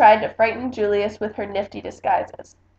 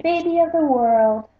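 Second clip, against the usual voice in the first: chiming parents; 6 semitones higher, 5 dB louder than usual. Acted. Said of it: "chimed Lily's parents".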